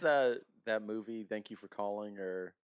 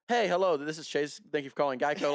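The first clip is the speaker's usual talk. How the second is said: slightly raised call-center greeting; smiling phone voice; 4 semitones higher, 4 dB louder than usual. Retold or imitated. Call-center worker answering mid-rant, smiling phone voice. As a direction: switch on a customer-service smile. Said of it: "hear the smile in your voice".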